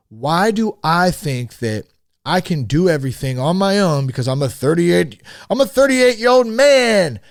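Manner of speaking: a hint of a swaggering grown man; half-done tough-guy voice, self-mocking; mock proud man voice. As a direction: puff up like a man who needs no help. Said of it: "I didn't know what voice I was doing there".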